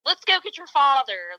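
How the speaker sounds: calling out pointedly so others hear; annoyingly loud. Retold or imitated. Mother loudly warning off a staring man, annoyingly loud. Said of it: "being very, like, annoyingly loud".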